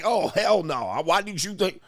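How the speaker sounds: hammed-up indignant woman refusing; a mock offended woman; mock angry woman. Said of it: "She was like".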